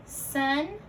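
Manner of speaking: "Sunset" in two parts, sun lifted, pause, set; split compound. Shown as a demonstration. Teacher modelling compound parts for learners, "Sunset" split by a pause. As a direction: separate the halves of "Sunset" with a gap.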